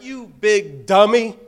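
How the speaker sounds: exasperated inner voice; scolding myself. Retold or imitated. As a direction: chide yourself for a dumb question. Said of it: "I was like".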